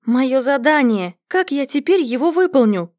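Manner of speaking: usual speaking voice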